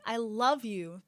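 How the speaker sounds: proper Canadian-schooled English accent. Shown as a demonstration. Showing how her accent had to change, proper English accent. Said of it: "it's, like, a different".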